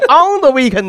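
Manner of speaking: quoted phrase. Retold or imitated. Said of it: "我说你这".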